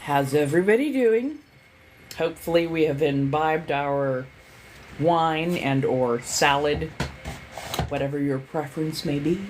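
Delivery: talking with fang glue in the mouth; pasty mouth from denture glue; wearing vampire fangs. Real, not acted. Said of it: "I have paste in my mouth".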